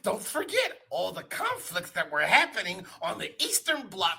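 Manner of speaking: Sylvester the Cat voice. Acted. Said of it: "I hate your well actually ass voice".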